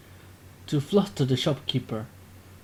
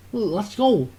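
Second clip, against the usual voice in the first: higher, louder call to run; shouted retreat call; 5 semitones higher, 3 dB louder than usual. Acted. Kobe shouts to the group to retreat. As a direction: yell to pull the group out. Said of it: "he shouts to the group".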